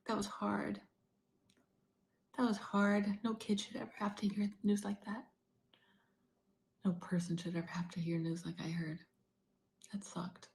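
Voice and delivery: real choked-up distress, trailing into whisper; holding back tears. Real, not acted. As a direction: push through it, close to crying. Tearful recounting of devastating diagnosis.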